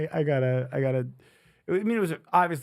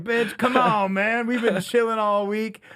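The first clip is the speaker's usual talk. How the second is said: mock pushy friend; 5 semitones higher than usual. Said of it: "You're like".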